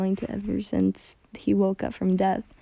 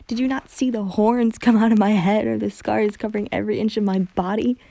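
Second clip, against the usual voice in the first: louder, desperate accusation; anguished anger; 2 semitones higher, 5 dB louder than usual. Acted. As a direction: throw the pain at her. Hunter's anguished self-hatred.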